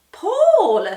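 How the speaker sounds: high, loud call of a name. A narrator's reading. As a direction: call the boy across the room. Molly calls Paul.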